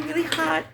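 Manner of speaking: really punched high and loud; stress on really. Real, not acted. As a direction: lean hard on the second really. Overheating, emphatic.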